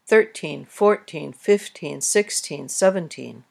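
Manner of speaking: Thirteen, fourteen, fifteen, sixteen, seventeen each with the first syllable thir, four, fif, six, seven stressed; counting stress on first syllable. Shown as a demonstration. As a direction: count them off, leaning on the front of each word. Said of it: "we tend to stress teen numbers on the first syllable".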